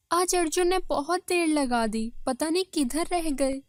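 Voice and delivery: lightly voiced worried wife; waiting wife. Wife alone at home wondering where her husband is, worried.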